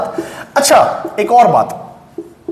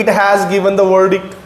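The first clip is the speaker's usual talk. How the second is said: slow dictation; much slower than usual. Shown as a demonstration. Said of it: "मैं लिखूं".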